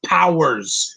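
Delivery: "Powers" with a full pow sound, falling; corrected "Powers"; correct pronunciation. Shown as a demonstration. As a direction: firmly say "Powers" with the ow. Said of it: "Say it right".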